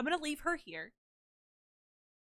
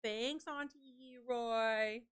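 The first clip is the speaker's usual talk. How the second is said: voicing the dog; 4 dB quieter, much slower than usual. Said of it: "you're gonna say".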